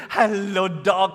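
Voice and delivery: lightly acted dog-owner greeting; drawn-out playful hello to a dog; greeting a pet. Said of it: "go up to them and say".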